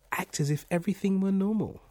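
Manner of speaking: high, loud urgent advice. A narrator's reading. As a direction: press the warning on them insistently. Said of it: "in a low, urgent voice".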